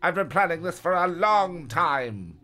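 high, loud, slow shout; screamed. A narrator's reading. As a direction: scream it out slowly. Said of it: "Blue Eyes screamed".

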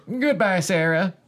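high, slow robotic farewell. Acted. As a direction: say it like a cold machine. Robot's dramatic farewell line.

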